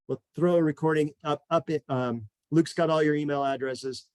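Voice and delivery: breathless, winded speech; out of breath. Real, not acted. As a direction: talk while catching your breath. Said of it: "I'm out of breath".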